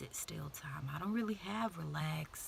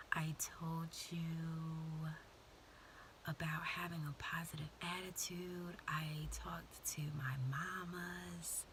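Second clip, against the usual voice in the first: soft whisper; 5 dB quieter than usual. Real, not acted. Recapping to viewers softly.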